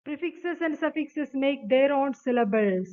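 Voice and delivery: each word of the definition read out very slowly; slow rule reading. Acted. Teacher reads the definition to students, slow dictation. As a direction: dictate it to the class.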